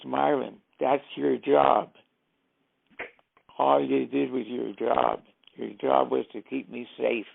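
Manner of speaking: firm, emphatic mock telling-off; retold scolding. Boss reminding Marvin of his job, retold scolding. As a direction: put him in his place, imitating a boss.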